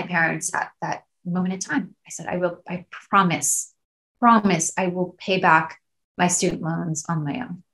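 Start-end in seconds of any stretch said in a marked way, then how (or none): 2.3-7.6 real emotion welling up; choked-up, then an apologetic laugh; getting emotional. Real, not acted. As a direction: hold back feeling while making a promise. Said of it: "I'm sorry, I'm getting emotional".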